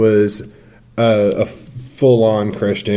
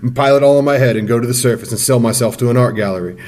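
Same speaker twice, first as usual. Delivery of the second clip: grudging schoolboy; 2 semitones higher than usual. Retold or imitated. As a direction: give in, then ramble the absurd dream. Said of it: "He's like".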